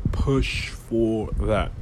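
slow breathy whisper. Shown as a demonstration. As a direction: whisper it slowly, like a secret. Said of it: "repeated as a whisper".

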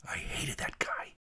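slow hushed whisper. Acted. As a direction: whisper it under your breath. Pilot watching his tormentor.

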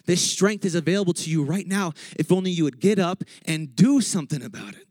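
urgent exhortation punching DO; fired-up preaching. Real, not acted. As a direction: rouse them to get up and act. Preaches at full force.

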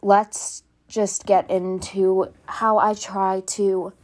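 a little out of breath from stairs; breathy and winded after running. Real, not acted. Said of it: "Sorry, I'm a little out of breath".

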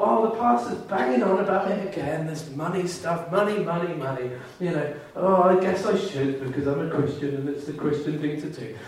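high, whiny complaining to God; grudging grumble. Retold or imitated. Pastor mocks a grudging giver complaining to God, high whiny grumble.

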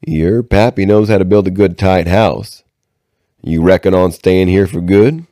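a hint of a folksy drifter; lightly voiced backwoods stranger. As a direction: lightly play a nosy, easygoing woodsman.

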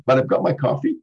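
normal talking voice

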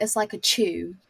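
"chew" said with a clear ch sound; Tuesday as chew. Shown as a demonstration. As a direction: demonstrate the British "chew" sound. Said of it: "you've gotta say it like chew".

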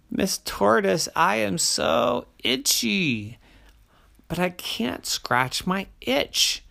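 high, pleading bear character; whiny itchy bear, lightly voiced. Bear pleads about her itch.

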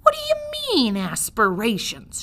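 very high, loud shout. Acted. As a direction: bellow the question. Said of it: "shouted Midge".

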